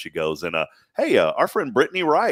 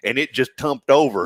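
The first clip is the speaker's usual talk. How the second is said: put-on country accent; 3 semitones higher than usual. Demonstrates the country word in tale.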